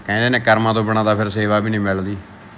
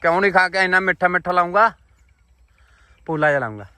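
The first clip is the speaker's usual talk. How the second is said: playful teasing; 9 semitones higher than usual. Real, not acted.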